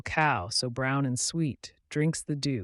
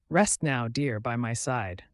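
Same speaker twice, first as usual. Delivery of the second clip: tender mother duck; 3 dB louder than usual. Acted. Mother duck putting her duckling to rest, tender. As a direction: settle the little one down. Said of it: "the mother duck said tenderly".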